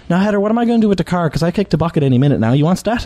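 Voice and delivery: quick Newfoundland great-grandmother; Newfoundland accent. Retold or imitated. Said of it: "full Newfoundland accent, too".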